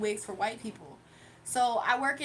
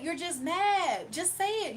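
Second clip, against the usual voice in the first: slow taunt; 4 semitones higher, slower than usual. Real, not acted. Taunting hater slowly.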